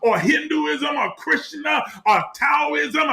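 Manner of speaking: building, impassioned sermon with long pauses; preaching. Acted. Preacher urging the congregation toward their authentic truth, impassioned. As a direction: swell and sink like a preacher at full force.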